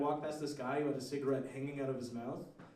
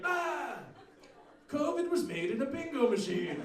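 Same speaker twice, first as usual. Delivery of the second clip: crazy street preacher; 7 semitones higher than usual. Retold or imitated. Crazy guy screaming with pigeon.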